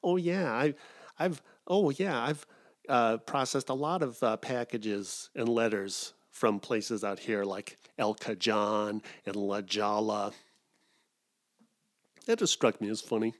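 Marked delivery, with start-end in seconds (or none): 0.0-10.3 light mock voice of a proud relative, slowing at the end; proud postal relative. A lightly voiced proud postal relative boasting about California mail. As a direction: play her proud, mispronouncing the towns. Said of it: "she was all proud of herself".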